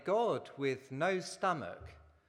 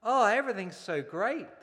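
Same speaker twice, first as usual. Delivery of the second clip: put-on excited child; 8 semitones higher, 6 dB louder than usual. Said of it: "the little boy exclaimed".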